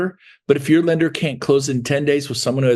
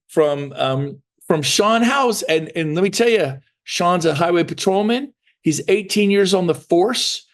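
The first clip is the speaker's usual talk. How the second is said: lightly acted, higher-pitched sales call; lender's phone pitch; 5 semitones higher than usual. Lender calling a listing agent with an offer, upbeat pitch. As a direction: sell the buyer over the phone. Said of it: "Hey, it's Anthony Wheaton".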